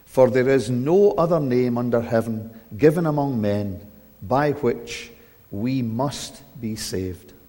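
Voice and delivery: measured, solemn scripture reading. Acted. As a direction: read the passage with weight.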